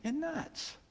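high, scoffing "You're nuts", dropping to soft, muttered disbelief; scoffing Thomas. Retold or imitated. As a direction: sneer at them, then wave them off quietly. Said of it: "he said".

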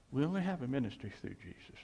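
fast, even restatement; brisk, understated repetition; quick repeat. Real, not acted. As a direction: run through it briskly without punching "have". Quicker softer repeat of lesson.

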